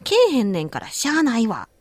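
「けえへんねんからしゃあないわ」 in Osaka intonation, falling from け; Osaka dialect. Shown as a demonstration. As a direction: say it like a native Osaka speaker. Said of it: "来ないんだから仕方ないだと". (大阪弁のイントネーションで「けえへんねんからしゃあないわ」)

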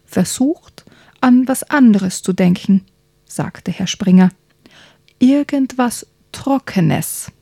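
lively bedtime story narration, hushed at times; reading to children. A narrator's reading. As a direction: tell it like a bedtime story for kids. Reads a children's book aloud. (Kindergeschichte vorlesen)

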